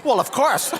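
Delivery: high, loud self-evident mom; as if logical. Retold or imitated. Mom defending her underwear rule, loud matter-of-course certainty. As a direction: say it as utterly obvious. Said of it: "like it's logical".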